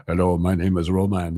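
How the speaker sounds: lightly done mock Eastern European accent; a quick, half-hearted Eastern European accent; generic Eastern European accent. Imagining how the guest Roman would sound, mock Eastern European accent. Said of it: "a generic Eastern European accent".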